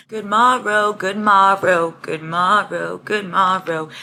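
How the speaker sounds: slow, hammed-up courtly greeting; lightly voiced old-fashioned nobleman; medieval gentleman. Imagined medieval prince voice.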